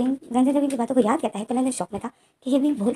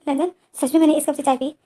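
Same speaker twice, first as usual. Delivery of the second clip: shocked disbelief; 5 semitones higher, 4 dB louder than usual. Retold or imitated. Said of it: "wing जो shock में हो जाता है".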